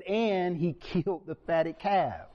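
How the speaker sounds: slow, drawn-out servant line; servant adding spice. Retold or imitated. Servant needling the older brother, drawn out. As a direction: lean into the fatted calf like an instigator. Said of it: "he put a little in it and said".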